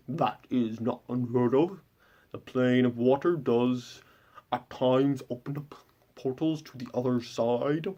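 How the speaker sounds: slow, lightly muffled captain's voice; a touch of mouth-full sea captain explaining calmly; odd fish-captain speech. Retold or imitated. Captain explaining planar portals to the party, slow muffled voice. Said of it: "a completely different way of speaking".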